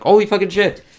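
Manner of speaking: high, loud imitated exclamation; mock shocked outburst. Heroes seeing the monster transform, mock stunned yell. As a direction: ham up the heroes' disbelief. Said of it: "they're like".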